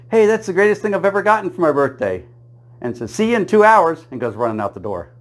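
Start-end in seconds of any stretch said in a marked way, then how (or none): 0.1-2.3 high, delighted squeal of joy; wife thanks husband for the coupon, high and delighted; thrilled wife. Retold or imitated. 3.1-4.1 high, loud, giddy sendoff; wife dashes out the door, high and giddy; gleeful goodbye. Retold or imitated. Wife runs off excitedly.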